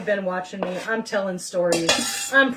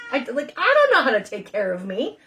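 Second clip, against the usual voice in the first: laughing through tears. Real, not acted. Laughing and crying at once.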